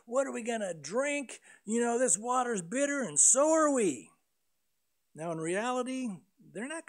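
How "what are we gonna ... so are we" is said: grumbling crowd turning on Moses, getting louder; angry complaining. Acted. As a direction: blame Moses, building to a loud finish. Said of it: "their attitude is".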